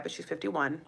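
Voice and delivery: a hushed, secretive aside; whispered aside. Real, not acted. Revealing she's fifty-one, in a gossipy whisper. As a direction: whisper the real age like gossip. Revealing Yolanda's real age.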